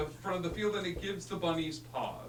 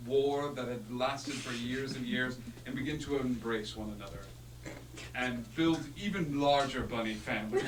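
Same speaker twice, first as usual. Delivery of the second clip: epic narration. Acted. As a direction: narrate it like a legend.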